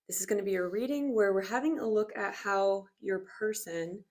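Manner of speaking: slightly out of breath from stretching. Real, not acted. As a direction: talk while still catching your breath. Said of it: "Sorry if I'm out of breath".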